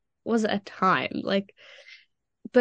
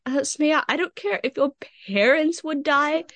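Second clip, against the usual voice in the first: imitating the teacher, pitched higher; dismissive teacher voice, higher; mock teacher; 6 semitones higher than usual. Teacher's cold reply retold.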